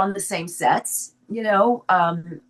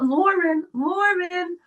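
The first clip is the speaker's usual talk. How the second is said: a lightly voiced Long Island drawl on the name; Long Island accent; 13 semitones higher, much slower than usual. Daughter-in-law calling Lauren in a mixed Long Island accent. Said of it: "this kind of a strange accent".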